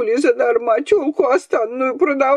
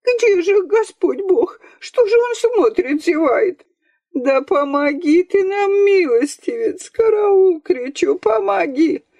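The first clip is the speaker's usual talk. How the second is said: keening lament; 11 semitones higher than usual. A narrator's reading. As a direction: lament him like a village mourner. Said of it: "запричитала другое".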